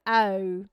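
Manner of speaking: "oh" drawn slowly through several vowels; Australian O. Shown as a demonstration. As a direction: stretch "oh" wide, Australian style. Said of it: "the way that Australians say their O's".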